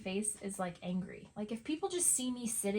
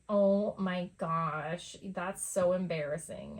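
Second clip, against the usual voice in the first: slow, drawn-out mortified groan, louder; a lightly played cringing daughter; embarrassed teen daughter; 5 dB louder, slower than usual. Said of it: "she's like".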